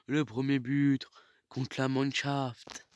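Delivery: excited sports commentary. Real, not acted. Goal scored in game commentary.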